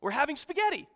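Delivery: loud, high, drawn-out exasperated outburst; hammed-up parental yell at full volume; exasperated dad. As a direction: imitate a fed-up dad shouting the answer, slowly and emphatically. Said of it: "turns around violently".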